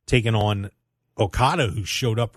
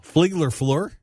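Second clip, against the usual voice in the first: raised, teasing question; mocking echo; 6 semitones higher, slower than usual. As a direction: echo the co-host's slip as a mock question. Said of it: "Yeah, I mocked you".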